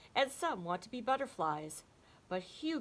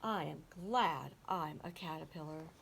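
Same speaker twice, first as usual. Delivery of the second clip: content thought; 3 semitones lower, 4 dB quieter than usual. Acted. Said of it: "he thought".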